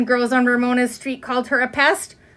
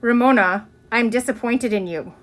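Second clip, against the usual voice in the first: serious teacher. Acted. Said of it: "voice was serious".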